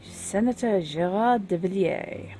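bad French accent on the name. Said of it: "I make no apology for my French accent".

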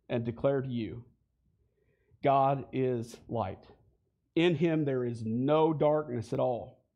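solemn church reading, slowed; scripture reading. Acted. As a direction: read the verses aloud with weight, unhurried. Reads scripture aloud.

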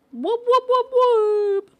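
high, loud whoops; cheering whoops. Real, not acted. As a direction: cheer like a hype crowd. Cheering chant.

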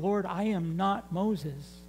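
soft, slow doubtful plea to God; timid plea. Retold or imitated. Joshua pleads softly with the Lord, unsure he measures up. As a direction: plead quietly, unsure of yourself. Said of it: "I can just see Joshua going".

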